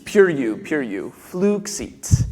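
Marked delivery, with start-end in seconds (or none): 0.0-1.1 pure you, a clean oo with no glide; pure u vowel. Shown as a demonstration. Director models the vowel for choir, pure u. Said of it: "Not flu, but fluxit".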